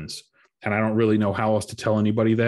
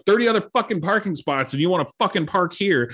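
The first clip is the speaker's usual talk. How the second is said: retold angry rant; 8 semitones higher than usual. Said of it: "I was like".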